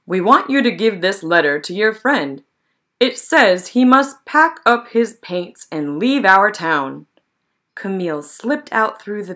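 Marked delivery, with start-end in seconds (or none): 0.1-7.1 firm townsmen, key words punched; townsmen giving an order. Acted. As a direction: lay down the order with forceful stresses.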